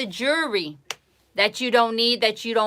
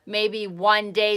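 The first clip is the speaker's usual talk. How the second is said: mock negative whining; 4 dB louder, slower than usual. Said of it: "Those are all negative words".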